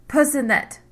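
sharp, loud, high hiss of a name. A narrator's reading. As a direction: spit the name out in anger. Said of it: "the Queen hissed".

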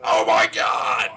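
slow, drawn-out horrified exclamation; aghast ranger. Retold or imitated. Ranger sees a child on the bear, slow aghast exclamation. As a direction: exclaim in shock, stretching the words. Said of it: "that ranger spins around and goes".

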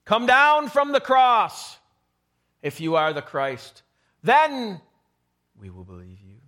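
loud sneering taunt that drops away; mocking. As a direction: jeer at the dying man. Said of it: "Mocking him".

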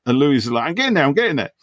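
high, lively retelling of the Lewis speech; Lewis monologue. Retold or imitated. Retelling Lewis's rambling story to a friend, high and lively. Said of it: "Sonny says".

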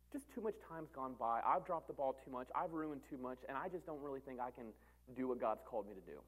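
low, soft, defeated admission; acted discouragement. Discouraged churchgoer confessing failure, low and soft. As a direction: sink low and quiet, as if giving up.

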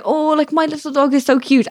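high mock-adoring voice; put-on sweet gush; gushing dog owner. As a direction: imitate a smitten owner, lightly cooed. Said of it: "when somebody's like".

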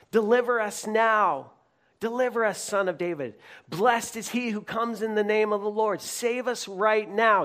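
high, loud plea to be saved; crowd crying out. Retold or imitated. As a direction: shout it as the hopeful crowd. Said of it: "They're shouting this at Jesus".

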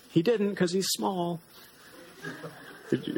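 gentle storybook read-aloud; lightly voiced storybook reading with small character voices; reading to children. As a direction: read it like a bedtime story to little ones. Reads picture book to children.

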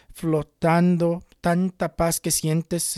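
drawn out, slow and hushed; a slow, peaceful recollection of floating; slow and dreamy. Real, not acted. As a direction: let the words float slowly.

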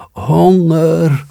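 long high howl of hunger; howling dog. A narrator's reading. Starving dog howling into the night, long high wail. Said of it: "riep de hond".

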